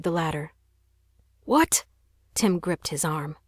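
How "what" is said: high, sharp disbelieving cry; can't believe he'd go out; stunned little brother; shocked. Acted.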